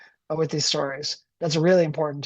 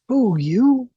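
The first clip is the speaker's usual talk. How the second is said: scoffing, high and loud; scornful question; 7 semitones higher, 6 dB louder than usual. Acted. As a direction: sneer it up high. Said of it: "Mickles asked".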